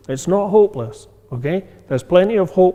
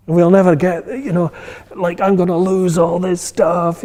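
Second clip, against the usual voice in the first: worked up; 3 semitones higher than usual. Retold or imitated. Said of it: "You get all worked up about it".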